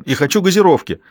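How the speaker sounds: put-on a boy bawling for soda; shouting. A narrator's reading. Boy on mother's lap shouts for soda. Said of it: "закричал он".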